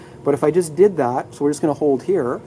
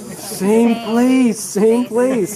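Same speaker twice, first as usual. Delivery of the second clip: mock excitement; 6 semitones higher, 4 dB louder, much slower than usual. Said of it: "you guys got excited with that one".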